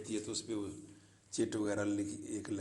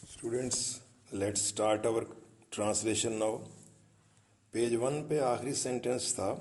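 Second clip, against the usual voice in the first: calls the class to start, louder; a raised classroom voice, like a teacher taking charge; louder teaching voice; 4 dB louder, slower than usual. Real, not acted. Teacher to students, starting the translation, louder.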